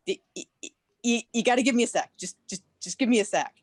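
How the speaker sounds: mock-flustered stammer. Telling friend to hold on, flustered stammer. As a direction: stumble and repeat, then rush the words out.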